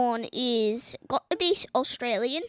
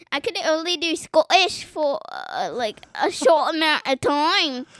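attempted Scottish accent; 4 dB louder than usual. Shown as a demonstration. Child explains limits to father, attempted Scottish accent. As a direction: keep up a rough Scottish accent. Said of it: "Okay, that it's back".

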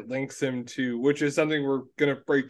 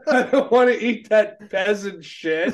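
snobby disgusted voice; 7 semitones higher, 4 dB louder than usual. Retold or imitated. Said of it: "try it again".

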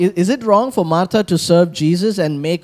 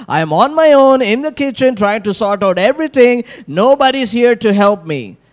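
dramatic Martha; 5 semitones higher than usual. Acted. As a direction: play the put-upon sister in the kitchen. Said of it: "She is getting all dramatic with Jesus".

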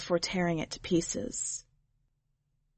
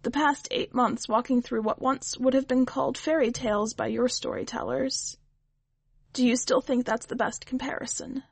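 a lightly voiced skeptical witch, a bit higher; the witch, probing; 4 semitones higher than usual. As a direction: ask it like a dry, doubting old witch.

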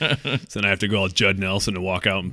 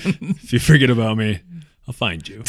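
mock menace. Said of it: "That's a dark rendition".

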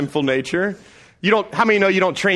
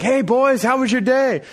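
higher, sing-song, fishing for a confession; dad innocently probing his sons, higher sing-song; knowing dad; 9 semitones higher, 3 dB louder than usual. Retold or imitated. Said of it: "I'm like".

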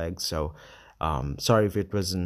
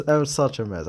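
laughing; 6 semitones higher, 4 dB louder than usual. Real, not acted.

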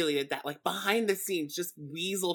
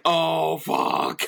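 loud mock dread, last word mostly breath; dread-filled reaction; 9 dB louder than usual. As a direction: echo a viewer's horrified groan, loudly. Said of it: "You're just like".

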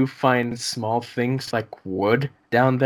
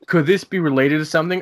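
quick, louder mock question; mock narrator question; 4 dB louder, faster than usual. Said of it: "he's asking all these questions".

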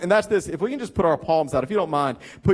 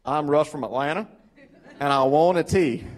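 slightly lower, imitate an Atlanta accent to poke fun; mocking Southern accent; 4 semitones lower than usual. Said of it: "And he's like".

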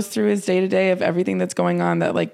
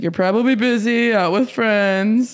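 slow drawn-out ending; dad guessing in voicemail; 3 semitones higher than usual. Retold or imitated. A dad leaving his daughter a voicemail, slow and assuming. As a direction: assume she is busy. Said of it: "my dad's like".

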